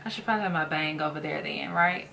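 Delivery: swollen mouth after tooth surgery; post wisdom teeth speech. Real, not acted. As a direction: talk around a sore, swollen jaw. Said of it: "I'm talking very funny".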